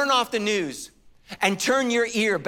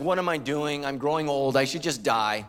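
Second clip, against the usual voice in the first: put-on lying in the dark feeling old; hammed-up gloom; mock despair; 4 semitones lower than usual. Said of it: "I'm just like".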